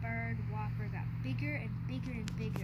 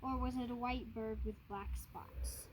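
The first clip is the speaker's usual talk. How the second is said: whisper; 2 semitones lower, 6 dB quieter than usual. Acted. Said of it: "said Papa".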